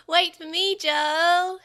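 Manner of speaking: high, loud creature voice; creature calling. A narrator's reading. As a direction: plead after him in a creature voice. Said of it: "as it floated in the air".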